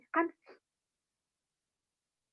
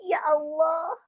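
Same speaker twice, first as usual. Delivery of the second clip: tag. Pretend. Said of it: "bilang sama Allah".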